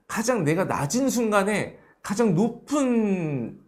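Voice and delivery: ordinary delivery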